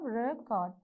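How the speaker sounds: "record" split into two separate syllables. Shown as a demonstration. Teacher counting syllables of the verb, "record" broken in two. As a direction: sound out "record" as two distinct beats. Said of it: "So how many syllables you have?".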